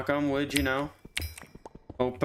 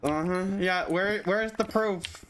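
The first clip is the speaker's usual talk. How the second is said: hammed-up innocent protest, rising high; mock innocent denial; 4 semitones higher than usual. Teasing a friend who asks if he feels better, in a high mock-innocent denial. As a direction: play the guilty friend swearing he was sober. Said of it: "I'm just trolling".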